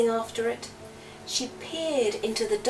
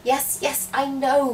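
muttered; 4 semitones higher, 6 dB louder than usual. Acted. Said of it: "muttered Aurora".

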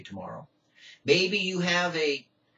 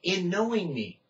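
voice of God; 5 semitones higher than usual. Acted. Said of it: "God said".

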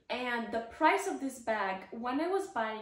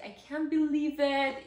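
overwhelmed; 4 semitones higher, 5 dB louder than usual. Retold or imitated. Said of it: "I was, like, almost crying".

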